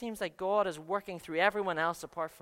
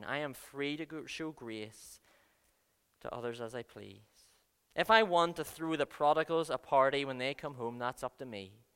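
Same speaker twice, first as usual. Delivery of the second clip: firm gentle reply; 3 semitones lower than usual. Retold or imitated. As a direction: answer the grumblers calmly as master. Voicing the landowner's answer.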